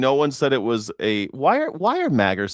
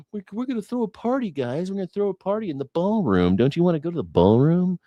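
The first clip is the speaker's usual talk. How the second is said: mock party hype; 6 semitones higher, faster than usual. Hyped party announcer.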